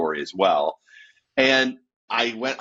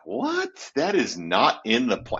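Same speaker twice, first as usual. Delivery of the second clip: shocked disbelief; 3 semitones higher, slower than usual. Retold or imitated. Shocked at being called pastor.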